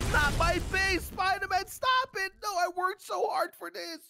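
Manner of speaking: wailing in play dismay; mock-distraught pleading; sad, upset protest. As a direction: protest as if your work is ruined. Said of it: "He is so sad".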